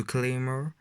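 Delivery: a try at an English accent; attempted English accent. Shown as a demonstration. French vlogger trying the manga title in an English accent. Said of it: "j'ai essayé de faire l'accent anglais".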